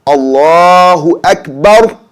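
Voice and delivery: Akbar with a short bar, no held vowel; correct Allahu Akbar. Shown as a demonstration. Teacher models Allahu Akbar for students, slow and careful. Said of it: "the right way to say it is".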